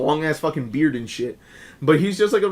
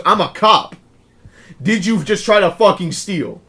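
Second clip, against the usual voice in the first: cop accusing; 3 dB louder than usual. Retold or imitated. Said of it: "and goes".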